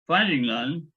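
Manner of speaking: steady read-aloud narrator voice; story narration. A narrator's reading. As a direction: read the novel to the audience. Author reads his novel aloud.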